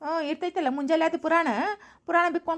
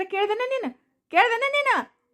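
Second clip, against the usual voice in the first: higher, pointed accusing question; raised-voice challenge; angry demand; 4 semitones higher than usual. Acted. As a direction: throw the question back in anger. Husband demands answer in quarrel.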